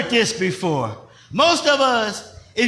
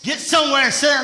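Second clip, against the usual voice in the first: faster parent command with power; forceful, from the chest; 4 semitones higher, faster than usual. Shown as a demonstration. Parent ordering the child to sit, forceful and from the chest. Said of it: "they say it with the chest. They say it a little loud".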